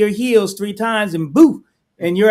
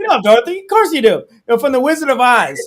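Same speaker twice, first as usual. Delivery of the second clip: playful mock; 3 semitones higher, 4 dB louder, faster than usual. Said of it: "you said that like it was a real person".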